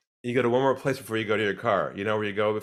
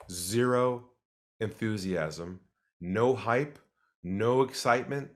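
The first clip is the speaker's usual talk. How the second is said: slow and calm; slower than usual. Shown as a demonstration. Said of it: "You gotta be calm".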